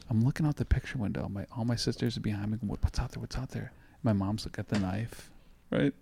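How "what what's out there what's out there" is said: hushed. Retold or imitated. Scared sisters whispering behind.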